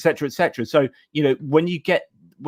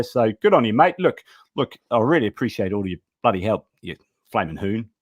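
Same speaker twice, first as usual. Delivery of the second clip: mock Australian accent. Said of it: "every time I do my very bad Australian accent".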